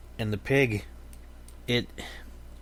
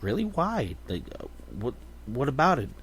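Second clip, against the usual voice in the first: amazed businessman; 4 semitones higher, 3 dB quieter than usual. Acted. City businessman amazed by pig.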